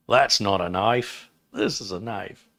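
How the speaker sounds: put-on Australian film-hero line, drawn out at first; slow mock-Aussie movie quote; Crocodile Dundee. Host quoting the film for a viewer, Aussie accent. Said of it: "Crocodile Dundee movie".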